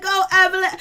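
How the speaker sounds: loud, high-pitched cheer; excited cheering. Retold or imitated. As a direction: cheer her on from the sidelines. Retells cheering on a cast member.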